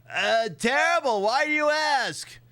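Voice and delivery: high, slow, oblivious reply; clueless Leon. Pretend. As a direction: answer innocently, not getting it. Voicing Leon answering Ada.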